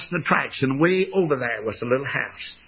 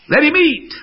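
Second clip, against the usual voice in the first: put-on high loud plea from a little girl; pleading cry; 13 semitones higher, 7 dB louder than usual. Little girl begging her papa, high pleading cry. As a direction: cry out to let him stay.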